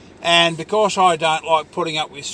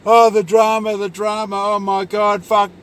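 mock drama queen; 3 semitones higher, 3 dB louder than usual. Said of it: "that's what fucking idiots do".

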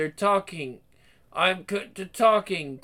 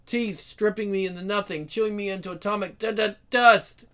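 stammering, frightened, broken phrases; delirious rambling. Acted. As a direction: fight through terror, words falling apart. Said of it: "He's delirious, rambling".

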